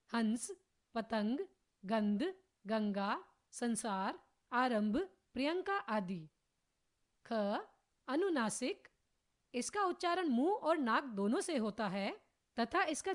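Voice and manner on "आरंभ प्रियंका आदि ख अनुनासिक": ordinary talk, nothing marked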